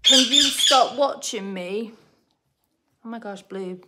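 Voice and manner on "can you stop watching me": slow, lightly put-on British accent; imitated British accent. Owner quotes pet bird mimicking her, hint of put-on British accent. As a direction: mimic a North American attempting British. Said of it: "trying to put on a British accent".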